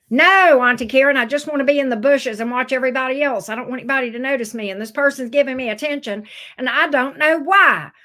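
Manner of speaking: loud, emphatic client pushing back; exasperated protest. Acted. Scorpio client objecting to Auntie Karen's reading, exasperated. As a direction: protest loudly on the opening word, then rattle on.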